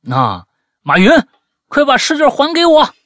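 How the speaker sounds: loud, high retold demand for the test paper; angry demand. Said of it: "我都气愤的对他说". (气愤地大声要回试卷)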